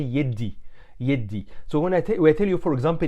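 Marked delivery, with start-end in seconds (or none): 0.0-1.4 يدي said the Egyptian way, yiddi; Egyptian pronunciation. Shown as a demonstration. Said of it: "but in Egyptian we say".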